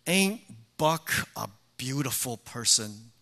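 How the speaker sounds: whiny Edith voice. Retold or imitated. Preacher imitates Edith asking Archie about Buck, lightly whiny. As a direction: mimic Edith's whine, sweetly admiring. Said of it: "she says in her whiny voice".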